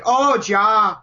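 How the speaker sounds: lightly put-on German accent. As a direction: imitate a German boy with a slight accent. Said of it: "Please don't do an accent".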